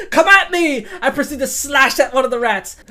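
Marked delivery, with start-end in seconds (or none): 0.1-0.9 loud, proud challenge; loud taunt. Acted. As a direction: call the rats on, loud. Character taunt repeated.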